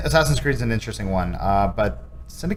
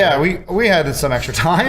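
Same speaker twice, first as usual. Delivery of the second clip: higher, louder mock developer; 6 semitones higher, 5 dB louder than usual. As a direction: play the sheepish developer. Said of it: "Just accidentally?".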